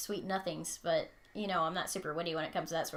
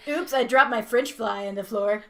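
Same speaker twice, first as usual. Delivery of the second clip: fake oops; 10 dB louder than usual. Faked accidental drop, loud.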